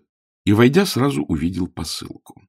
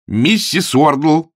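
slow, drawn-out call, louder and higher; 7 semitones higher, 6 dB louder, much slower than usual. Acted. Augustine calls the landlady from the stairs, drawn out. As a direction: call her name down the stairs. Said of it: "взывая".

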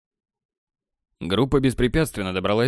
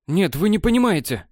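babbling elf; 7 semitones higher than usual. A narrator's reading. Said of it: "лепетал эльф".

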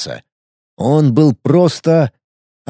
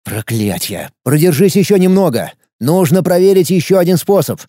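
exclaiming; 4 semitones higher than usual. Acted. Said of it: "воскликнул землянин".

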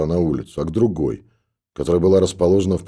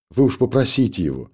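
high, tearful pleading, louder at the end; sobbing; 7 semitones higher, 3 dB louder than usual. A narrator's reading. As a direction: beg through sobs. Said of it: "всхлипывая". (девушка умоляет истопника, всхлипывая)

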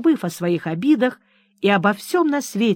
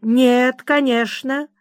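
light, smiling refusal ending on a rise; a touch of placid sweetness; gentle and unruffled; 5 semitones higher, much slower than usual. Acted. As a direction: kindly shut the matter down. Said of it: "ласковым голосом и с невозмутимой улыбкой".

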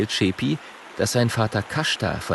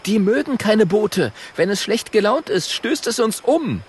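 high, louder urgent explaining; urgent warning; 11 semitones higher, 3 dB louder than usual. Acted. Schabako warning about hippos, high and urgent. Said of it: "ruft Schabako".

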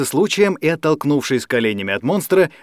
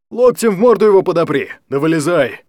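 shouting; 4 semitones higher, 4 dB louder than usual. A narrator's reading. Old man shouting advice.

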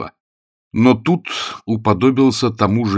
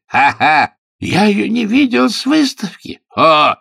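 frantic; 6 dB louder than usual. A narrator's reading. Frantic baronet continues.

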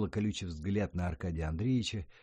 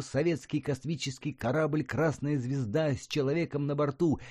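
boy's mock Soviet radio announcer, higher; 6 semitones higher, 3 dB louder than usual. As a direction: play the solemn state radio announcer. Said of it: "начал скороговоркой говорить".

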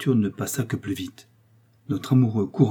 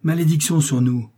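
louder, higher raging cry; furious cry; 5 semitones higher, 4 dB louder than usual. A narrator's reading. Ambassador raging at the count's return, furious cry. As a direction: curse it like a man possessed. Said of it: "avec des cris de possédé".

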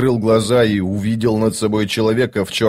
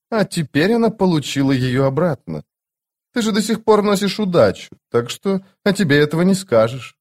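higher, cool shadow god; a lightly voiced stern immortal; Cotillion voice; 7 semitones higher than usual. Cotillion voice again.

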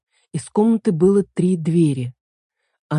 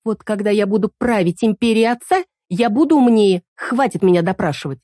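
capricious; 4 semitones higher than usual. Acted. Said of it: "Капризный голос перебил его".

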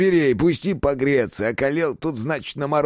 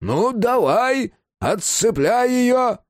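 high, slow, eager demand; impatient officer; 13 semitones higher, much slower than usual. A narrator's reading. The officer urges him to unchain the woman, high and eager. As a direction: hop with impatience as you say it. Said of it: "пританцовывал от нетерпения".

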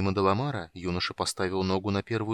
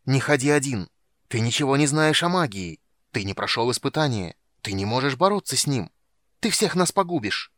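loud, higher shouts of fear and rage; fearful angry shout; 4 semitones higher, 6 dB louder than usual. Acted. Dark elf shouts warnings at the boy, loud. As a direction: warn him, nearly panicking. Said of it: "Страх и ярость душили его".

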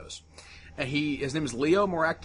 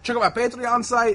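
put-on higher, a touch louder Scandinavian accent; 9 semitones higher, 5 dB louder than usual. Podcaster imitating a Scandinavian YouTuber's plug, Scandinavian accent. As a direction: plug your page with a Scandinavian lilt. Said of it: "his Scandinavian accent was coming through".

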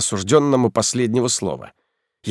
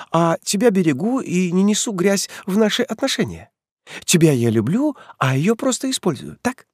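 mocking rising anger; 11 semitones higher than usual. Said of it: "Леся срывается на крик".

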